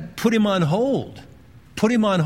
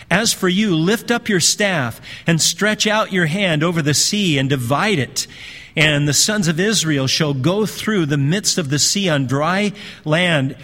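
firm, measured Bible reading; scripture reading. Acted. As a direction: read the verse out with solemn emphasis. Reads scripture aloud to congregation.

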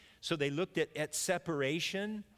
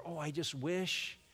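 longing surfer. Retold or imitated. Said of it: "we're gonna be longing for".

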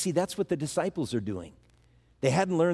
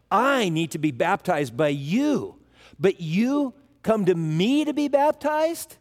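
"you come to me" rising far higher, amazed; stressed pronouns; 4 semitones higher than usual. Retold or imitated. John the Baptist protesting to Jesus, pronouns stressed, rising pitch. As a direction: lean hard on "you" and "me" in disbelief. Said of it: "the emphasis was on the pronouns".

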